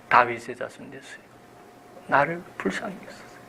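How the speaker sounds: soft, hushed plea for mercy; earnest plea. Acted. Blind beggar calls the Lord again, earnest hushed plea. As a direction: plead softly with all your heart. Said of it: "온 정성을 다해서".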